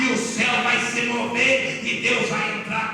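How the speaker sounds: loud, measured preacher's build; forceful preaching. Real, not acted. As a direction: drive each promise home to the congregation.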